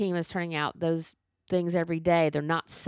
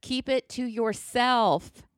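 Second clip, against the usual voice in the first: high exasperated plea; 5 semitones higher than usual. Real, not acted. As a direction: lift it in disbelief. Pleading exasperation.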